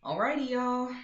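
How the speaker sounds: rally the viewers to go; cheerful call. Real, not acted. Sign-off to viewers.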